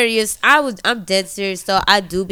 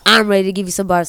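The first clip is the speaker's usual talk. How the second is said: fast; 2 semitones lower, much faster than usual. Pretend. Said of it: "I'm lying".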